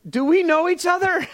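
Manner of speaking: high, tentative retold question; awkward questioning. Pastor asking barista if they've met, high and awkward. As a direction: ask it in a high, unsure voice.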